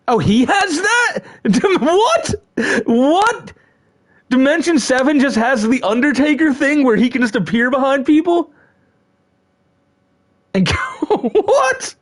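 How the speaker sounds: shrill, high astonished what; stunned disbelief. Real, not acted. Streamer watching a wrestler appear from nowhere, high disbelieving shriek. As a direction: squeal out of pure disbelief.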